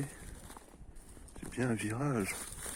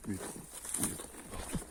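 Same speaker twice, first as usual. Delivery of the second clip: breathy whispered echo, softer; 8 dB quieter than usual. Acted. Gamer whispering to viewers about the trunks. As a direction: hush it like a secret discovery.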